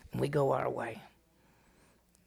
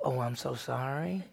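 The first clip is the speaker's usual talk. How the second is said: mock apology; 2 semitones lower, 5 dB quieter than usual.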